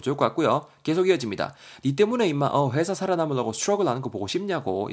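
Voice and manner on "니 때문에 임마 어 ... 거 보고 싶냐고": pushy, badgering reproach; nagging telling-off. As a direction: lay into them, mock-exasperated. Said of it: "대거이를 겁나 쪼고 있죠".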